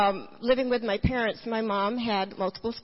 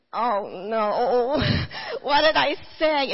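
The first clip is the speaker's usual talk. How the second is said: half-laughing oh no, louder at the end; laughing dismay; 2 semitones higher, 5 dB louder, slower than usual. Retold or imitated. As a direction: laugh at your own rash promise. Realizing she committed herself.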